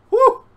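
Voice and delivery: sharp high whew of exertion; a loud winded whew; loud exhale. Real, not acted. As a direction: blow out hard, winded. Exhausted after undressing on camera.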